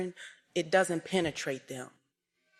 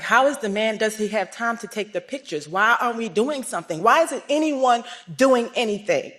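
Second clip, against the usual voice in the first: upset outburst; 2 semitones higher, 5 dB louder than usual. Retold or imitated. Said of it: "I was so upset".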